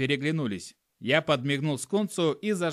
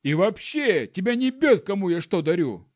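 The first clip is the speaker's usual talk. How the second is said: indignant monkey male, much louder and higher; shouted back; 5 semitones higher, 6 dB louder than usual. Acted. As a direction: bellow your defence. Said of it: "крикнул в ответ волосатый самец".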